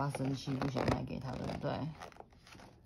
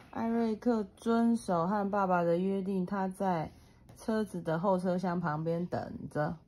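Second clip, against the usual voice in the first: put-on reading to a toddler. A narrator's reading. Mother reads picture book aloud.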